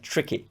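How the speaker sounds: "tricky" begun with a soft "chr"; exaggerated English TR. Shown as a demonstration. Teacher exaggerating for English speakers, "tricky" as "chricky". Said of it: "I'm exaggerating that".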